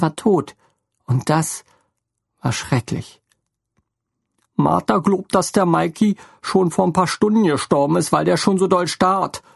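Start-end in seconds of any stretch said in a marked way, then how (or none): 4.5-9.4 higher, grieving motherly voice; sorrowful. A narrator's reading. Helene tells Theo about Martha, sorrowfully. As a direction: say it with grief, higher. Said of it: "bemerkte Helene kummervoll".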